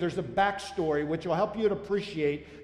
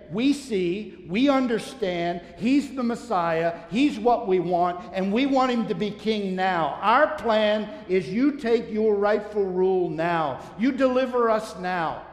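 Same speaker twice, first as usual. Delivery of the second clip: crowd's eager demand; 2 semitones higher, 4 dB louder than usual. Pretend. Preacher voicing crowd demanding a king.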